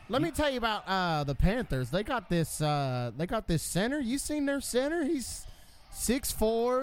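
hometown color commentator. Pretend. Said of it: "a hometown voice".

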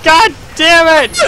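high, slow drawn-out curse; frustrated yell. Real, not acted. Frustrated in game.

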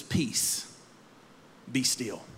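soft, low, breathy calm command; Jesus calmly hushing the wind and waves; hushed command. Acted. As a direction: still the storm with a hush. Jesus calms the storm.

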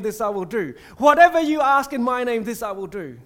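rising preacher's refrain; building proclamation. Acted. Repeats Jesus' promise six times.

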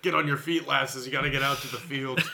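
put-on hammy Scottish dad accent. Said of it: "he has this terrible Scottish accent".

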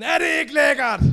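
high, loud shouted pride; shouting with proud excitement; excited boast. Retold or imitated. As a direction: yell it proudly at your flatmate. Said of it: "Jeg var meget sådan".

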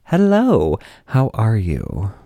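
hammed-up flirtatious host voice; flirty sass. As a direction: purr it at the handsome passengers. Flirty retold quote to passengers.

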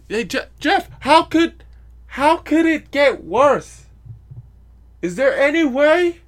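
very high, loud mock questioning; mock exclamation. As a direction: blow it up into a high, drawn-out cry. Mock question to himself, acted out.

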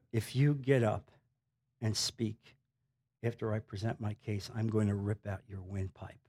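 low, hushed menace with deliberate pauses; quiet threat. Retold or imitated. Leaning over to the opposing man in court, quiet threat. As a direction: drop it low and soft, a private warning. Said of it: "in a quiet voice, I said".

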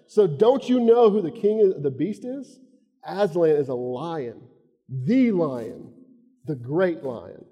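lightly voiced Florida redneck, slow and emphatic; a Southern drawl from Florida, proud of the lion; Florida redneck accent. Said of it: "just go with this redneck from Florida".

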